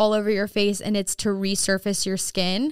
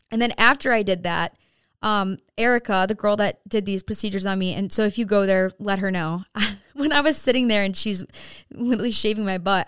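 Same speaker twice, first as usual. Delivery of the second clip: ordinary delivery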